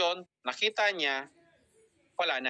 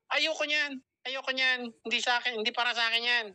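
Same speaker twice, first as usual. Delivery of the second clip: mock refusal, pitched higher, quick repeats; lightly acted brush-off in a higher voice; negative prospect; 5 semitones higher than usual. Invited prospect replying to the invite, mildly acted refusal. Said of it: "may nag-reply naman".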